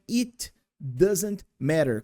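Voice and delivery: slow, careful It doesn't matter; slow clear model. Shown as a demonstration. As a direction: spell out each word of "It doesn't matter" slowly. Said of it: "que é".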